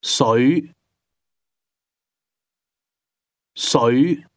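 水 said with a mid-rising tone; 水 starting mid and rising upward. Shown as a demonstration. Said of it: "Water is pronounced with a mid-rising tone".

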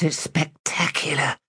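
whispered high and breathy; breathless whisper. Acted. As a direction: gasp it out in awe. Whispered in ecstasy.

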